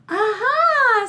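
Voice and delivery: high, loud triumphant aha. Acted. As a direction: crow in triumph. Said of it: "said Big Anthony".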